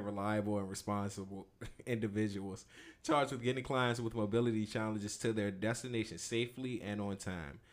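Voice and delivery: polished ad read for the job listing; customer service voice. Pretend. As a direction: read it like a friendly company rep. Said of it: "Use that customer service voice".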